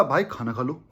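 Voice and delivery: caring. Shown as a demonstration. Friend urging his buddy to eat, soft and caring. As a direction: say "भाई खाना खा लो" gently, like you truly care. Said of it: "अलग feel है".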